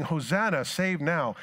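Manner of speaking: preacher imitating the cheering crowd; excited crowd.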